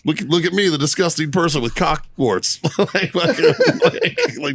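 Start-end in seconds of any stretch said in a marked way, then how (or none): 0.1-2.6 retold high-pitched disbelief; mock-appalled at a friend's openness; incredulous. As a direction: voice raised in pitch, acting out astonishment.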